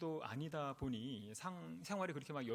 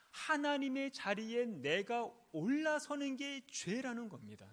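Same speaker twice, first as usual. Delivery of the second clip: raised, emphatic sermon delivery; emphatic preaching; 6 semitones higher, 4 dB louder than usual. Real, not acted. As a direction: drive the point home to the congregation, pitched up. (힘주어 강조하는 설교조)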